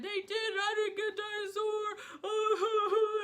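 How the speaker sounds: put-on high, slow sing-song child whine; whiny daughter. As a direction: drag it out like a sulking kid. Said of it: "And she said".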